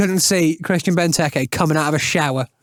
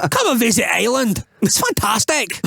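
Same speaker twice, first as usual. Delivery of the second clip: mock Scottish accent; 6 semitones higher than usual. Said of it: "doing a Scottish accent".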